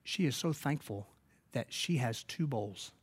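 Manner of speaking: soft, halting, lightly imitated tearful translation; choked-up mutter. Missionary passing on a grateful woman's gift, softly choked up. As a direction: barely get the words out, gently. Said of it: "he could barely mutter out the word".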